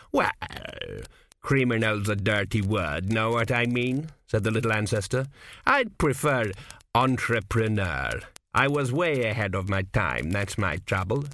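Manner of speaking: put-on a sly old man in a dream, unhurried; a hint of a wry old founder; old ancestor Kuft. Kuft defends himself.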